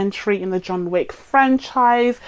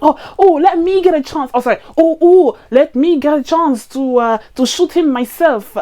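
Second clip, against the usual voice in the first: put-on terrible French accent; 5 semitones higher, 4 dB louder than usual. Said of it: "It's terrible French accent".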